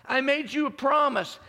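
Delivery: high and loud, pressing on promise; loud proclaimed promise. Acted. Preacher voicing God to the congregation, loud proclamation. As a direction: declare it to the whole room.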